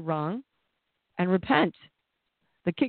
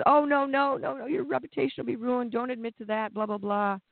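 mock fearful shame; 3 semitones higher than usual. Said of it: "Shame says".

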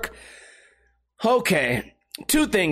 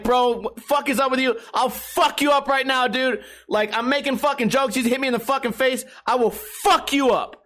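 higher-pitched retold aggro threat; mock going nuts; 4 semitones higher than usual. Hovering over the friend who slapped him, mock aggro. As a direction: replay an aggro rant, only mildly heated. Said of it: "I'm going nuts. Being a real aggro douchebag".

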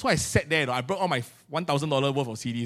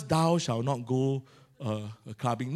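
mock scripture; 5 semitones lower, 7 dB quieter, slower than usual. Mock Bible verse.

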